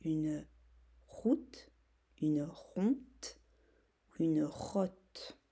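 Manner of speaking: route said correctly, then ronte and rotte as wrong forms; right and wrong versions. Shown as a demonstration. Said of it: "la bonne syllabe". (route, puis ronte et rotte)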